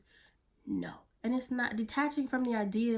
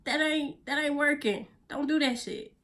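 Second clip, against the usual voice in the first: scolding inner voice; 6 semitones higher than usual. Retold or imitated. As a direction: snap at yourself like a sassy scold. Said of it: "you're so like".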